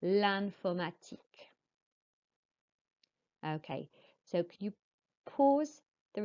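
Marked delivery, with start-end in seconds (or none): 0.0-1.2 l'informatique with the in said as a nasal an; teacher modelling l'informatique; French pronunciation. Shown as a demonstration. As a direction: say l'informatique, lan-for-ma-teek. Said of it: "the I is pronounced like an A".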